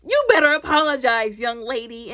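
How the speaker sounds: stern parent. Retold or imitated. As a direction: lay down the law to your daughter. Father scolding daughter in retold fight.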